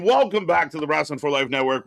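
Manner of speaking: lifted, upbeat announcer read; excited host intro. Acted. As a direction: pump up the welcome. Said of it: "Like I said".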